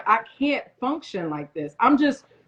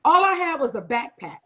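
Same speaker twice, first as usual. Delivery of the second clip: a real catch of tears in the voice; choked up, on the edge of crying; tearful; 4 semitones higher than usual. Real, not acted. Remembering the audition to the host, choked up.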